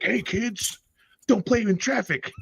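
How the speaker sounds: high, cheery hammed-up announcer; mock PSA hero. Hammed-up G I Joe hero warning kids about traffic. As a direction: sell the silly safety tip.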